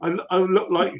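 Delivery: laughing. Real, not acted. Laughing while retelling muddy fall.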